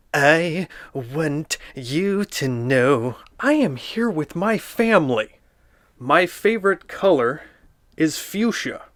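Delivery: lightly voiced prim little girl showing off; girly Nancy voice. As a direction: read it like a proud, fancy little girl. Reads the book as Nancy.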